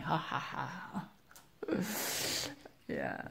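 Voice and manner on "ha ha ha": low, slow imitated laugh; mock laughing. Parent imitating son laughing at his screaming sister, slow mock laugh. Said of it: "And then he is laughing".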